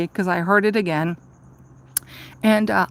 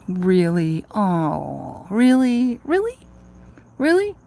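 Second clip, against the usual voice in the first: incredulous, building; 2 semitones lower, much slower than usual. Retold or imitated. Seeing the all gender sign, growing incredulous. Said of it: "And I'm like".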